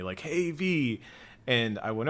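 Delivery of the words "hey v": high-pitched imitated call-out; mock holler. Lookout hailing a passer-by on the street, imitated holler. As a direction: call out as if hailing someone, lightly. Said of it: "somebody hollered out at me".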